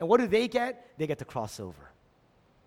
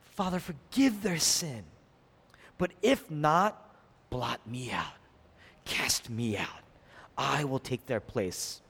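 slow, measured prayerful plea; understated intercession, slow and grave; pleading; 3 semitones lower, slower than usual. Acted. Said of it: "Moses pleads for them".

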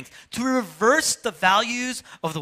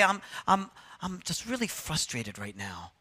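mild frustration; 6 dB quieter than usual. Retold or imitated. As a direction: hold the anger back politely. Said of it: "They say".

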